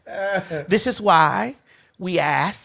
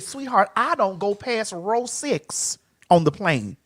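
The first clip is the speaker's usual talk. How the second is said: measured refusal; 9 dB quieter, slower than usual. Retold or imitated. Star telling production where they will sit, soft measured refusal. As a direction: refuse quietly, taking your time.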